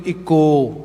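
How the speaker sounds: ਇੱਕੋ read by spelling, ending on a long open o; literal misreading. Shown as a demonstration. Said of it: "Punjabi language ਦੇ accordingly". (ਇੱਕੋ ਨੂੰ ਅੱਖਰਾਂ ਮੁਤਾਬਕ ਲੰਮੇ 'ਓ' ਨਾਲ ਪੜ੍ਹੋ)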